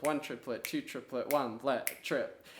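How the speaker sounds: quiet clipped count of one triplet two triplet one let trip; tricky count. Shown as a demonstration. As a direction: show how the count trips you up. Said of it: "a little bit tricky".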